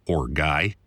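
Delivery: ordinary delivery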